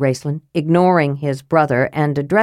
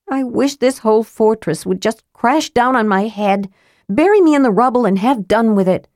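higher, mournful lament; Tika, sulking girl, self-pitying; 5 semitones higher than usual. Acted. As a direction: wallow dramatically in misery. Tika wallows in self-pity.

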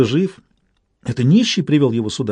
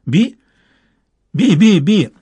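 high, squeaky eerie bird voice; a tiny inhuman creature chirping a name; жуткий птичий голосок; 4 semitones higher, 3 dB louder, slower than usual. A narrator's reading. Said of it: "Голос раздавался всё ближе". (тонкий писклявый птичий голос)

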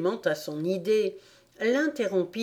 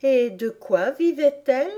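high, quick curious Alice; eager interruption; 7 semitones higher, 4 dB louder than usual. A narrator's reading. Alice interrupting the Dormouse, high and eager. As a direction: cut in with a higher eager question. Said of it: "interrompit Alice".

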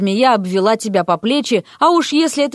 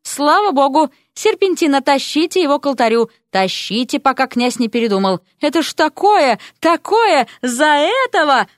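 excited rector; 5 semitones higher than usual. Acted. Rector rushes the wedding.

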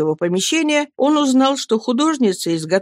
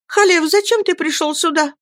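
sinking voice; 11 semitones higher than usual. A narrator's reading. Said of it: "спросила Мириам упавшим голосом".

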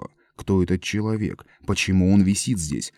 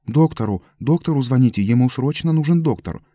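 louder, higher urgent calling; 5 semitones higher, 4 dB louder than usual. A narrator's reading. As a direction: rush the crowd to phone. Прохожий зовёт врача. (прохожий взволнованно, громко требует врача)

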